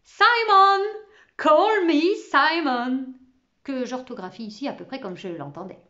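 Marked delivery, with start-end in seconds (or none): 0.0-3.1 high, loud, exuberant shout; joyful bark. A narrator's reading. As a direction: bark your name out gleefully. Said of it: "il aboya joyeusement". (aboiement joyeux)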